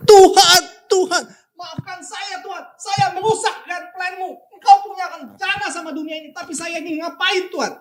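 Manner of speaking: reenacting a man weeping as he prays; weeping prayer. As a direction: sob out the apology to God, retold. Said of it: "Bapak Ibu, dia nangis".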